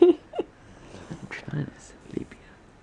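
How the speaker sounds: high slow breathy dog voice; voicing the dog. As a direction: speak for the sleepy dog.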